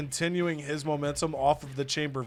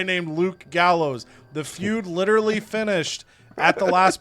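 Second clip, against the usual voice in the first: mock wrestler promo; 3 semitones higher, 6 dB louder than usual. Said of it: "M V P comes out to the ring and says".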